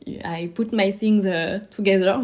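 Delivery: slow, heavily French-accented English. Shown as a demonstration. Quoting an English saying in a strong French accent. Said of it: "vous pouvez admirer mon magnifique accent, euh, anglais".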